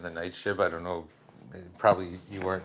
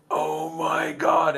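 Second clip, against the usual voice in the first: stunned whisper-slow shock; 7 semitones higher, 5 dB louder, much slower than usual. Retold or imitated. Shocked at joke beside girlfriend.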